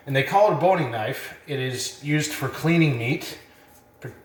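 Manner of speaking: slightly winded after work; out of breath. Real, not acted. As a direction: talk while catching your breath. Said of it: "sorry if I sound out of breath".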